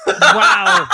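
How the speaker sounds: loud, high burst of laughter; helpless, loud guffawing; laughing hard. Real, not acted. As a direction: crack up loudly on the word. Cracks up at the guess.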